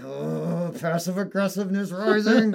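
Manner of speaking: high, put-on nerdy voice; hammed-up meek nerd getting worked up; nerdy, meek Mike. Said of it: "Nerdy, like, very meek Mike".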